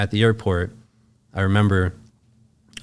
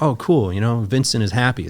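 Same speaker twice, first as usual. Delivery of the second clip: lifted, lightly pleased tone; mildly upbeat retold remark; retold pleased surprise; 3 semitones higher than usual. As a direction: voice a hopeful little reaction, higher. Retelling relief that he was happy.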